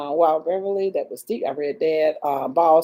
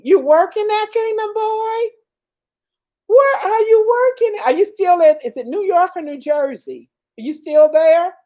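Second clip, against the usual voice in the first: excited questions; 10 semitones higher than usual. Real, not acted.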